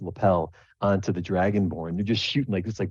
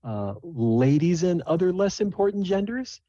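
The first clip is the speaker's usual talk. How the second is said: higher, grand stage-announcer voice; showy emcee; 11 semitones higher than usual. Acted. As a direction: introduce the star act with a flourish. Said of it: "she says".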